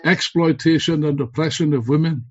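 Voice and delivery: rousing political speech, building to slogans; rally the comrades with fervor; fiery revolutionary speech. Acted.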